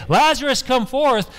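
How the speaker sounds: high, loud call to the dead; commanding call. Acted. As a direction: call Lazarus out of the tomb. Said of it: "He couldn't even hear Jesus say".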